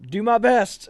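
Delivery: imitated dutiful trainee. Trainee replying to captain's transfer threat, imitated dutiful answer. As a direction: answer up like an obedient recruit.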